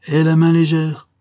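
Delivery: loud, high command; shouted order. A narrator's reading. Count shouts at bonesetter during the delivery, loud command. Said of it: "cria de nouveau le comte".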